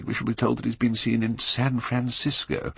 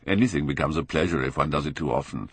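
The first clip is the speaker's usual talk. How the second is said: laughing; 4 semitones lower than usual. A narrator's reading. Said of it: "cried Lord Henry, laughing".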